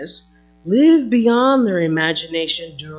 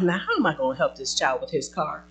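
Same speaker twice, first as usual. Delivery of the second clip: quick, flustered mother's worry; mock fretting; faster than usual. Mother fretting over her son's car, flustered. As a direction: rattle off the worries in a fluster. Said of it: "worrying about".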